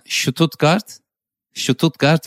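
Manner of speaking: Stuttgart said as ʃututɡaʀt, slow, with an extra u; slow stretched Stuttgart; Turkish pronunciation. Retold or imitated. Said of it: "die Betonung".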